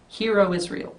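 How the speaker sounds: solemn scripture call; proclaiming. Shown as a demonstration. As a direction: ring it out like a summons.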